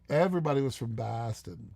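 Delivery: imitated Boston accent, pitched low. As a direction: lightly put on a Boston accent. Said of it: "basically slapped with accent".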